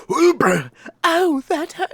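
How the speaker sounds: high, loud theatrical gasp of pain; hammed-up wounded voice; mock pained voice. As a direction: overplay the hurt. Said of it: "better if his voice did not change".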